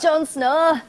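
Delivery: a light northern English "Jon Snow"; northern English accent. Retold or imitated. Repeating the name, in a light northern English accent. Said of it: "that northern English accent".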